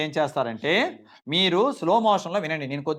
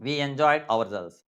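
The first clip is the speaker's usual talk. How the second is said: slow model sentence; much slower than usual. Shown as a demonstration. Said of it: "ఇదిగో రాశాను".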